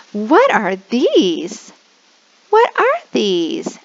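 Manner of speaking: put-on slow, drawn-out question for a child; slow teacher question. Shown as a demonstration. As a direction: ask a little kid patiently.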